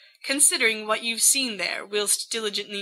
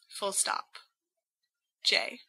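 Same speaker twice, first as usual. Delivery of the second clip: whispered; 10 dB quieter than usual. Acted. Whispered sign-off to a letter.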